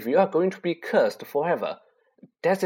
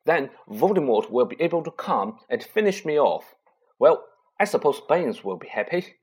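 feverish; 4 semitones higher, 4 dB louder than usual. Acted. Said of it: "Harry went on feverishly".

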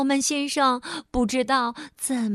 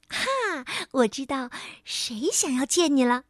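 elf voice. Acted.

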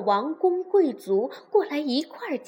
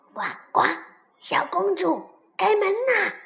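frog calling out; 5 semitones higher, 4 dB louder than usual. Acted. Frog knocks at princess's door, calling out. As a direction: call through a door as a frog.

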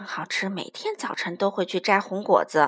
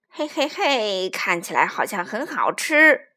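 menacing predator; 3 semitones lower, 3 dB louder than usual. Acted. Hungry predator eyes the baby.

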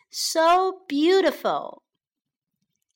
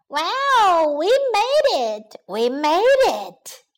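higher, slow joyful cheer; 4 semitones higher, 3 dB louder, slower than usual. Acted. Bees celebrating their victory, joyful cheer. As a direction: celebrate the win.

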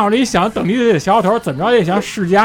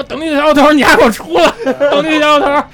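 loud, high cheeky yell into the garage; children shouting the name at a camera speaker; kids shouting; 8 semitones higher, 6 dB louder, faster than usual. Retold or imitated. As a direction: shout the name like bold kids daring him.

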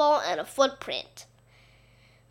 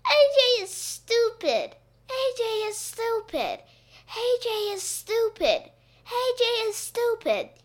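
high holler repeated as an echo; yelled echo; 12 semitones higher than usual. A narrator's reading. Gym repeats Ryan's taunt, yelled echo. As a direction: mimic a taunt bouncing back off the walls. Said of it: "yelled the gym".

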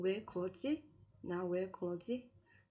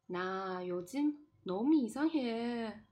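slow reading; 4 semitones higher, 4 dB louder than usual. Shown as a demonstration. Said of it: "我慢慢地读一下这段对话".

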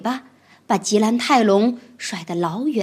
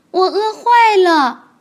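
慢慢拖长的大恐龙声音; 肚子饿得发慌地嘀咕; 饿坏的霸王龙; 9 semitones higher, 8 dB louder, slower than usual. Acted. 霸王龙饥饿. (慢吞吞的饥饿霸王龙)

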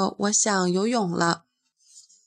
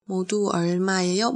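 quicker, run together; fast repeat; much faster than usual. Shown as a demonstration. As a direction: say it again briskly. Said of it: "那你可以说".

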